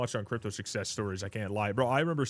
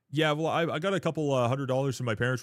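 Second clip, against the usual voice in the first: mock nerd boast; 4 semitones higher, 4 dB louder than usual. Mocking the crypto nerd.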